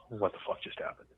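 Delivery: hushed, half-voiced question to oneself; quiet mock muttering, drained of voice; retold stunned muttering. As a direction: act out sinking into disbelief, very softly. Retold private reaction after the incident.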